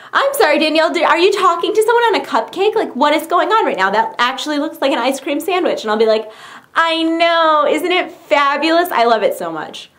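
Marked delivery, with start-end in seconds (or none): 0.1-5.8 lightly voiced, higher puzzled questioning; imitated baffled relative. Relative asking about the cupcake phone, mildly put-on bafflement. 6.7-8.9 higher, lightly hammed-up delight; mock gushing. Replying to a puzzled relative, lightly acted gushing.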